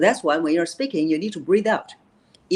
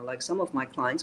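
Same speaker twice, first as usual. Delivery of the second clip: swallowed voice; 3 semitones lower, 8 dB quieter than usual. Shown as a demonstration. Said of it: "speaking with a voice like this".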